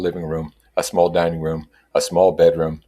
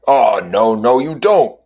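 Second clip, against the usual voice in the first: louder, cutting in fast; quickly interposing; 6 semitones higher, 7 dB louder, slower than usual. A narrator's reading. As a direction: jump in to stop him. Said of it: "interposed Tom quickly".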